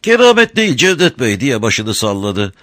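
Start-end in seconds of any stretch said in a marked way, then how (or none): 0.0-1.4 high, sweet-talking crafty smuggler; sly, sugary old rogue; honeyed voice. A narrator's reading. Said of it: "tatlı konuşuyor".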